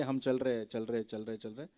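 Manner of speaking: ordinary talk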